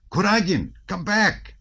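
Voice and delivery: high, urgent call; shouted warning. A narrator's reading. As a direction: shout him back urgently. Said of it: "shouted Dolokhov".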